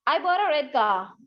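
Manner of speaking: slow, clear dictation of the sentence; teacher dictating slowly. Shown as a demonstration. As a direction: spell it out slowly for them to write. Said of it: "Can you please write down the sentence".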